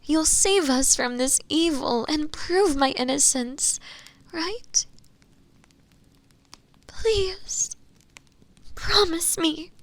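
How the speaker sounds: tearful, high-pitched frightened pleading; terribly afraid. Acted. Accused prisoner begs the inquisitor to save her, terribly afraid. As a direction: plead desperately, voice rising with fear and close to crying. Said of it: "I'm so terribly afraid".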